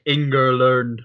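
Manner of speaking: "Ingerlearned" drawn out as a mocking "Ing-er-learned" for England; mocking pronunciation. Podcaster mocking how rival fans say "Ingerlearned". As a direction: mimic the fans' odd way of saying "Ingerlearned". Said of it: "the people that say".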